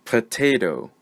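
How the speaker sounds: "Potato" as puh-TAY-toe, weight on TAY; careful word model. Shown as a demonstration. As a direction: model "Potato" alone with a short schwa first. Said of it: "say the word one more time".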